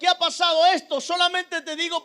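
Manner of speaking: imploring, aggrieved questions; pleading with God. Retold or imitated. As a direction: press each question as a mild reproach. Retold anguished questioning of God.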